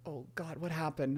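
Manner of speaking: hushed, breathy whisper of dread; panicked whisper. Retold or imitated. Boy caught cussing whispers to himself in dread. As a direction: breathe it out, frozen in your tracks.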